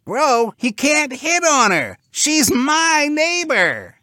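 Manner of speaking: high, loud territorial pig; squealy indignant cartoon pig; snapping pig. A narrator's reading. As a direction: snap slowly and loudly, staking your claim. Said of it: "snapped the brick-building pig".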